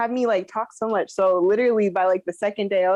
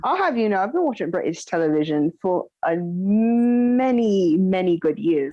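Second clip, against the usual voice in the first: mock-proud British accent, sinking lower; put-on British accent; 4 semitones lower than usual. Boasting of years of British television, mock British accent. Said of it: "our British accents".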